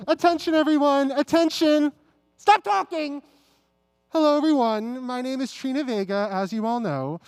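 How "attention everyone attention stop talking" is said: demanding attention, raised voice; calling out. Acted. Trina demands the audience's attention, calling out. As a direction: call the room to order.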